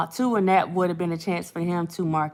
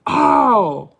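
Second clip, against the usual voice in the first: laughing; 3 semitones higher, 6 dB louder than usual. Real, not acted. Overcome after laughing fit.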